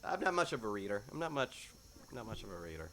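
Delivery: a hint of nervous denial; feigned innocence. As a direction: play dumb, fading out. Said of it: "and she just".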